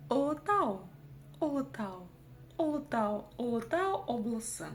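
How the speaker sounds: «Олотау» с коротким начальным «о»; чётко покажи «Олотау», первый звук краткий; казахское «ұ». Shown as a demonstration. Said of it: "Как прочитать букву". («Олотау облысы» раздельным учебным показом)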